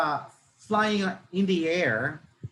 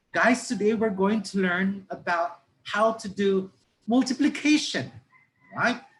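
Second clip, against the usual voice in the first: higher-pitched, lively teacher addressing a class; conversational teacher; 5 semitones higher than usual. Shown as a demonstration. Teacher introduces multiplication to students, conversational classroom voice. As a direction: chat the lesson to students, pitched up. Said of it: "Para ka lang nakipag-usap".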